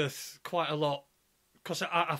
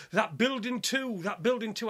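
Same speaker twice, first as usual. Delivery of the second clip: higher-pitched mock excitement; spurting it out; 4 semitones higher than usual. Young lad spurts out his new discovery, imitated excitement. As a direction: imitate a lad bursting to tell. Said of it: "he's trying to spurt it out to me".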